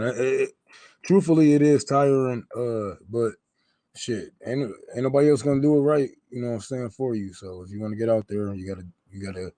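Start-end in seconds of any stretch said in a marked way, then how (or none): none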